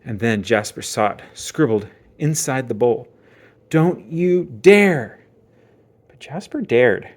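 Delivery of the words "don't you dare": very slow, loud menacing warning; creepy crayon warning. Acted. The crayon warning Jasper from the toilet bowl, slow menace. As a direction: stretch every word as a threat.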